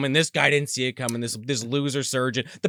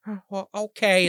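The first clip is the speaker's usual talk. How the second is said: higher, mildly sheepish backing down; mock sheepish; 5 semitones higher than usual. Surgeon backing down when turned on, lightly imitated sheepishness. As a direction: imitate someone meekly giving in. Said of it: "gets all sheepish and sits down".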